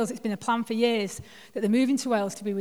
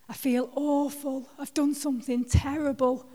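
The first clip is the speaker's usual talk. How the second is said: imitating tearful Davina; 5 semitones higher than usual. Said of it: "she couldn't speak to me for crying".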